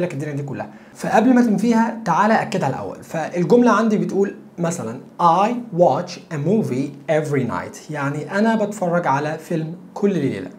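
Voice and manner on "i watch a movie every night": each word spelled out very slowly; slow model sentence. Shown as a demonstration. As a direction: say it slowly so learners can follow. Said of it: "teacher models sentence slowly".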